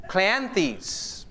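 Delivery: Cleanthes said as KLAN-theez; own pronunciation. Shown as a demonstration. Preacher sounding out a Greek poet's name, Cleanthes as KLAN-theez. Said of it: "all these pronunciations of these Greek names, this is just totally mine".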